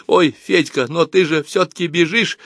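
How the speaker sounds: a hint of a flustered girl; girl's voice. A narrator's reading. Nata's voice in dialogue.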